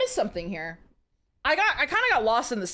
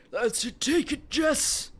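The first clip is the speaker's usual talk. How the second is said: rushed and tight; slower than usual. Acted. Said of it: "Vincent's voice was rushed and tight".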